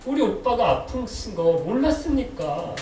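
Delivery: mildly hammed-up, plaintive complaint; reproachful lament. Preacher acting Martha pleading with Jesus over her brother, reproachful lament. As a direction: imitate a grieving reproach, drawing out the sentence endings. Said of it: "이렇게 하소연하는 거예요".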